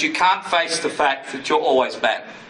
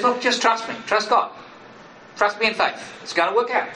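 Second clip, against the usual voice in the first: reassuring Jesus voice; 5 semitones higher than usual. Acted. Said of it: "And he says".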